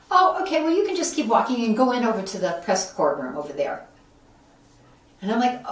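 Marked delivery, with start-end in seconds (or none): 0.1-3.9 high, bright, quick brush-off, imitating the staffer; breezy staffer. Staffer hurrying him along, imitated with a high brush-off. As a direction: toss off directions as you walk away.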